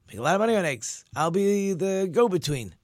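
mildly hammed-up eager schemer; excited scheming. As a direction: get carried away by a money-making idea. Excited man plans egg business.

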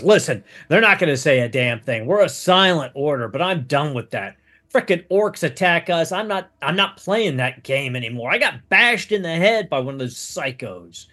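lightly voiced disgruntled monk; a touch of agitated griping, urgent at the end; fed-up monk. Injured monk breaking his order's silence, mildly exasperated.

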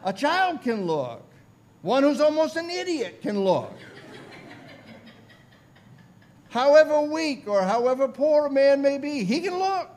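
high, loud pulpit insistence; rousing homespun preacher; untrained lay preacher. Retold or imitated. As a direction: press the point harder, voice climbing. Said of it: "I remember how he said".

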